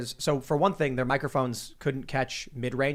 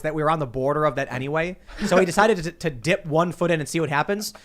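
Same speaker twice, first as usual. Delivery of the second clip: mock news anchor; 3 semitones higher, 5 dB louder than usual. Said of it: "Brian Stelter came out and was like".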